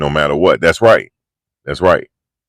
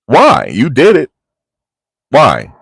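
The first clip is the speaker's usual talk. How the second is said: higher, louder indignant "why?"; retold indignant challenge; 5 semitones higher, 4 dB louder, slower than usual. Girlfriend answering back in a retold fight, indignant. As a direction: throw the question back, pitched up and accusing.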